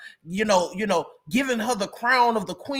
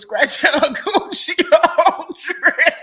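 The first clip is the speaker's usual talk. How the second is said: laughter overtaking the sentence, rising and louder; cracking up; 8 semitones higher, 7 dB louder than usual. Real, not acted. Retelling the trip gossip to viewers, cracking up. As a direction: fight through it, then collapse laughing.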